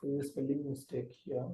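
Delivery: very faint, far from the mic; barely audible, low-level voice. Real, not acted. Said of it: "Sir, your voice is very low".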